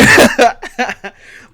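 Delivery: loud, high-pitched cackle; loud laugh. Real, not acted. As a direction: burst out laughing hard. Bursts out laughing.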